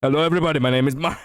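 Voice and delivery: mild Markiplier intro voice; a hint of Markiplier hosting; Markiplier impression. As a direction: lightly mimic the YouTuber greeting. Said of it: "let me do that with the actual, you know, Markiplier".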